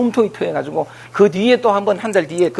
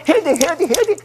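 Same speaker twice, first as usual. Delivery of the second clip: anxious inner voice; 8 semitones higher than usual. Retold or imitated. Voicing compulsion, high.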